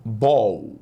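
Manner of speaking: ball said straight, one short syllable, BÓL; English ball. Shown as a demonstration. Teacher showing students how ball sounds, direct and clipped. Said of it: "Ball se fala assim, diretamente".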